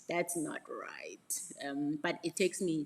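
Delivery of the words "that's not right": very slow mock objection; slow, hammed-up protest; dawning indignation. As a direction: draw out each word in mock realisation. Acts out her delayed reaction.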